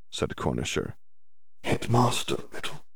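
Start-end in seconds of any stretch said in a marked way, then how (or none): 1.6-2.8 cold. Acted. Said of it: "said Riddle coldly".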